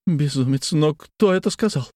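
sharp rise on who said it; aghast, demanding to know who; startled indignant question; shocked. Acted. Shocked outburst at news.

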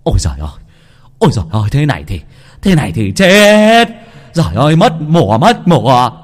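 kneel and wail to the heavens; wailing lament. Acted. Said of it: "khóc than trời chửi đất". (khóc than trời đất, giọng to kéo dài)

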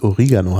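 "Oregano" with an i for the e; Latin pronunciation. Shown as a demonstration. Host explains the Latin origin, "Oregano" said o-RI-ga-no. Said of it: "weil es auf Lateinisch tatsächlich".

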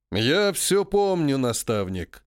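slow, hard-edged answer; harsh reply. Acted. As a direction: cut him off firmly. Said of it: "жёстко ответил Алексей". (жёстко и медленно)

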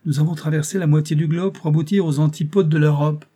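put-on a young man's thrilled exclamation; excited exclaim. A narrator's reading. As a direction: announce it with rising excitement. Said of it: "m'écriai-je".

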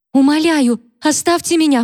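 very high, whining beg; whimpering plea. A narrator's reading. Catherine, cowering by the hearth, whimpers at Mary. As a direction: whimper to be left alone. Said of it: "проскулила Кэтрин".

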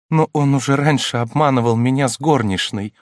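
full of anguish. A narrator's reading. Countess confessing husband's old betrayal, mild anguish. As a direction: ache through the complaint, lightly done. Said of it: "голос её был полон тоски".

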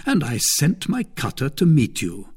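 a hint of a smug lord; Lord de Winter. Lord de Winter taunting his captive sister-in-law, lightly voiced.

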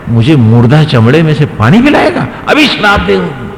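retold indignation rising in pitch; indignant threat. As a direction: climb to a mock-furious threat. अपमानित उतंग श्राप की धमकी देता. (नाराज़गी में श्राप की धमकी)

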